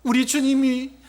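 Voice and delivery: high, loud, drawn-out mock wailing; hammed-up lament of a weeping woman; tearful wail. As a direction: wail it out pleadingly, stretching the words. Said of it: "아마 이렇게 울면서 했을 거예요".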